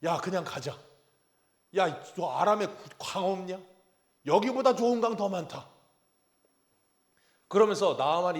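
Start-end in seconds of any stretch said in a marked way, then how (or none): 0.0-5.7 indignant Naaman, rising louder; a hammed-up fit of offended pride; mock angry general. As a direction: huff off like an insulted general. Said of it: "열이 받아가지고".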